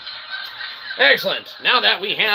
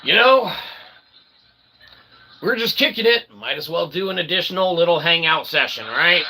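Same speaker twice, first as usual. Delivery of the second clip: talking to ourselves; 2 semitones higher than usual. Retold or imitated. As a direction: lightly voice your own thoughts. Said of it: "think to ourselves".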